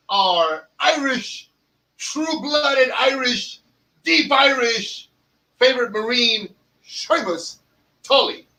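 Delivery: slow, drawn-out hype build to a name; dramatic slow intro. Acted. Host introducing Seamus on the show, slow drawn-out hype. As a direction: stretch each title like a fight announcer.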